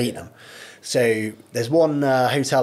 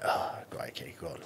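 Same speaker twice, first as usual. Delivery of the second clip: breathless whisper, much softer; 7 semitones lower, 12 dB quieter than usual. Retold or imitated. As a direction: barely voice it, as if winded against the cage. Taking punches against the cage.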